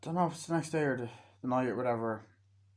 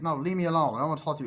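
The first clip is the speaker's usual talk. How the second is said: high, loud refusal; raised-voice mock annoyance; acted rebuff; 6 semitones higher, 6 dB louder, faster than usual. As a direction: send them away from behind the door. Rebuff at door, retold.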